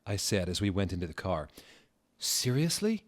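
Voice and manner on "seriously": high, rising disbelief; mock astonished gasp. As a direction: act floored by the news. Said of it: "he gasped".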